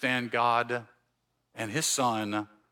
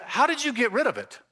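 church lady; 6 semitones higher, faster than usual. Retold or imitated. Church lady asks about accent.

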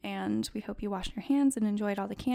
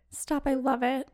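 excited gasp; 4 semitones higher than usual. Real, not acted. Excited about dancing.

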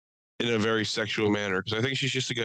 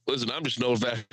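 Caitlyn Jenner; faster than usual. Retold or imitated. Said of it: "Caitlyn Jenner just being like".

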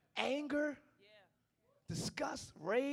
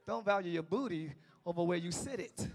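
gentle restatement; 3 semitones lower, 3 dB quieter than usual. Shown as a demonstration. Preacher restating his point gently to the women. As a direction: say it kindly, softer. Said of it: "That's what I mean to say".

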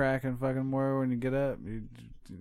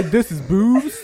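incredulous quoting; 6 semitones higher, 8 dB louder, slower than usual. Retold or imitated. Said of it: "Did you just say".

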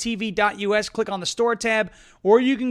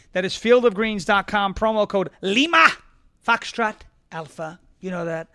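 upbeat sponsor pitch; lively ad read. Acted. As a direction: sell it to the viewers.

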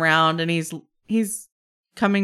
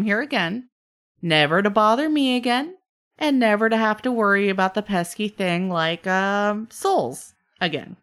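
bargaining trickster; 3 semitones higher than usual. Acted. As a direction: lay out the bargain with a showman's relish. Game master plays bargaining god-like trickster.

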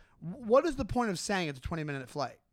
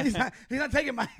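giggling through a mock rule; laughing mock quote; 6 semitones higher, 4 dB louder, faster than usual. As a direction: laugh while quoting him. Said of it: "You're like".

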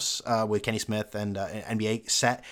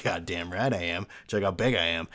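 lower, boastful athlete in a mock ad; Frank Thomas; 4 semitones lower than usual. Athlete showing off to gym admirers, mock boastful voice. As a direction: play the cocky star of a cheesy commercial. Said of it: "Is that Frank Thomas?".

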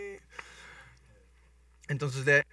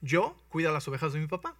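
raised, eager bragging; lightly voiced confident shepherd boy; boastful boy David; 5 dB louder than usual. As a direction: sell yourself to the king. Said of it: "Y dice".

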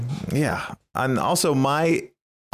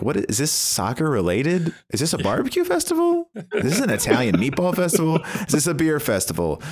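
puzzled festival-goer; 6 semitones higher than usual. Pretend. Imagining puzzled festival-goers asking questions.

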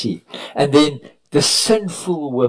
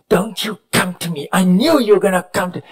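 mild retold snap; 6 semitones higher than usual. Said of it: "And she snapped".

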